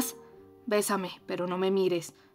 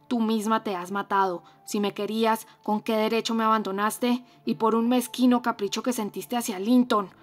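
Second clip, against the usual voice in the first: loud, fierce reproach; ferocious; 7 dB louder than usual. Acted. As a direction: hurl the blame at her, fiercely. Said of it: "le dijo con acento feroz".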